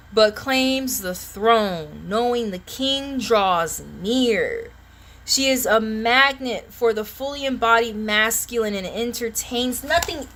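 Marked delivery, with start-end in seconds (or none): 0.1-8.0 drawn-out oracle reading; slow ceremonial tarot reading; solemn slow reading. Acted. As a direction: intone the card slowly like a proclamation. Rereading slowly.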